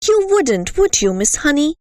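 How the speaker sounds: sneering giant of a headmistress; the Trunchbull. Acted. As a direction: taunt the young teacher. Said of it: "the Trunchbull said".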